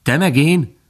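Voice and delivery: high, loud startled question; astonished fawn. A narrator's reading. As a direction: burst out in amazement. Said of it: "Bambi csodálkozott".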